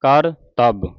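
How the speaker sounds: ਕਰਤੱਵ said as "kaar-tab", two clear parts; "kaar-tab" for ਕਰਤੱਵ, carefully sounded; joined-word pronunciation. Shown as a demonstration. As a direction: model ਕਰਤੱਵ with a full "kaar" before "tab". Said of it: "ਇਸ ਤਰ੍ਹਾਂ ਪੜ੍ਹਨਾ ਹੈ".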